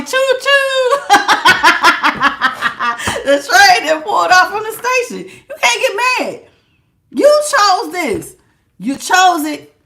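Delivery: high laughing train call, gloating; laughing choo choo. Real, not acted. Reader mocks the ex with a high, laughing choo choo. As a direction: giggle through a mock train whistle.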